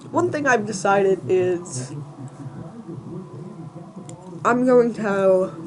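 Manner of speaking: talking while chewing gum. Real, not acted. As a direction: mouth full of gum. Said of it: "I'm chewing gum right now".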